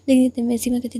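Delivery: ordinary delivery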